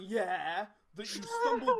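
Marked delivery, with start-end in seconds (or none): 0.0-0.7 mock yelp. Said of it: "so busy going".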